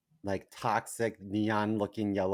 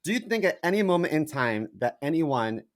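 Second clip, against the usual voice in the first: raised, louder opening challenge; indignant retort; 4 semitones higher, 4 dB louder than usual. Retold or imitated. Actor answering a casting person about his real voice, indignant. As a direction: confront them with a pointed rhetorical question.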